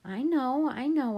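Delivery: high, emphatic soothing reassurance. A narrator's reading. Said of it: "soothing her".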